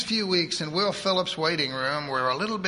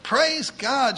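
higher, louder cry of praise; joyful shout; 9 semitones higher, 5 dB louder than usual. Acted. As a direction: shout it out to heaven. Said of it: "she shouted".

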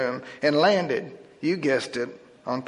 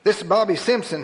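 abrupt; 5 semitones higher, 3 dB louder than usual. Acted. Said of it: "he said abruptly".

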